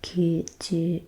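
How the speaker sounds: stiff robot voice pronunciation. Real, not acted. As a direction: say kyuju like a careful robot. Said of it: "I sound like a robot".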